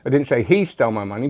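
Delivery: HE lifted with a rise; stress on HE. Shown as a demonstration. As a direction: point at he, not her. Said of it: "but it could have been her".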